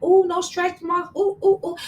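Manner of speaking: high playful ooh-ing; mock relief. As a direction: act relieved at no stretch marks. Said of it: "I'm like".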